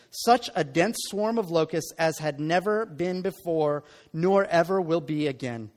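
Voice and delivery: measured, solemn Bible reading voice; scripture reading. Acted. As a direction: read the passage with weight and gravity. Scripture reading before sermon.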